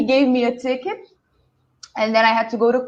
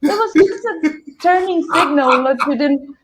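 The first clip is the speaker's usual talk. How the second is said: calm her down kindly; soothing cop; 4 semitones higher than usual. Retold or imitated. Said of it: "he said".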